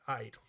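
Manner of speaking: "Airo" with the A stressed, falling away; stress on first letter. Shown as a demonstration. Teacher showing where the Greek verb's accent falls, "Airo" stressed on A. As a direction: say "Airo" stressing the opening A of the diphthong. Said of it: "se pronuncia en la primera letra".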